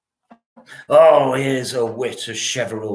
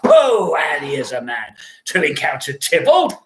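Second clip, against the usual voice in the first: scornful shout. Acted. Scornful outburst about Romeo.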